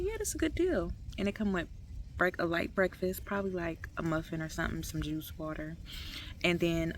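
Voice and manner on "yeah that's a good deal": high-pitched quote. Retold or imitated. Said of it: "So I'm like".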